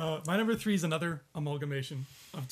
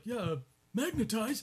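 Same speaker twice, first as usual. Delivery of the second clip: put-on old man voice; 4 semitones higher, 3 dB quieter than usual. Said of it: "can you do an old man voice".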